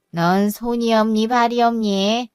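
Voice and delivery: slow, drawn-out reproach; sarcastic scolding. Acted. Mother-in-law chides daughter-in-law asking for pastes, scolding slowly. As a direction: scold with each question drawn out.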